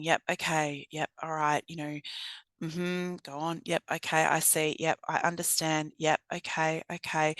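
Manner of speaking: quiet, easy backchannel yeps and okays; soft listening murmurs. Shown as a demonstration. Trainer showing how to calm an agitated person, quiet murmurs. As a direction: murmur along like an attentive listener. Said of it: "So it's like you're, you're nodding and you're going".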